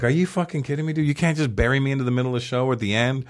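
mildly worked-up mock complaint; retold anger. Comic retelling being put on first, indignant. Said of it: "I was so fucking mad".

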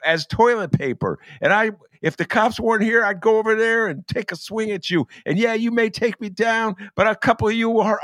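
high-pitched, worked-up mock tirade; imitated angry yelling. Man in red at the KKK across the street, imitated angry yelling. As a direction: imitate a man cursing someone out, pitched well up. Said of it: "starts yelling at him".

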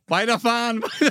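Weiterfahren, weiterfahren lachend höher herausgepresst; vor Lachen kaum gesprochen. Acted. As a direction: die Pointe lachend rausprusten. Pointe, schläfriger Verkehrspolizist. (lachend, Pointe des Witzes für Basti)

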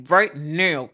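Right now through clenched teeth; through gritted teeth. Real, not acted. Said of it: "Kat's talking through her teeth and so am I".

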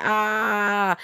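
mock scream held long; imitated scream. Podcaster imitating the trapped victims' screams, mild mock scream. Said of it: "screaming and screeching".

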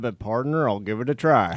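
light put-on cowboy accent. Co-host trying the requested cowboy act, light cowboy accent. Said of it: "you've liked the cowboy accent".

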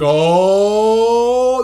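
long, rising crowd "oh"; crowd build-up. Retold or imitated. Imitating the crowd as the build-up grows, crowd build-up. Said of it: "the crowd's like".

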